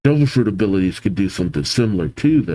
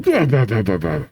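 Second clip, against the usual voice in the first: villain laugh; faster than usual. Acted. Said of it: "by the demonic Brogy".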